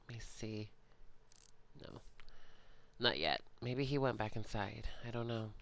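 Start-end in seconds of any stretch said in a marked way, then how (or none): 0.1-2.0 soft unvoiced whisper. Real, not acted. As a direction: whisper it to stay hidden. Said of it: "I kinda need to be quiet".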